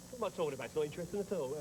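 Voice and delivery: ordinary delivery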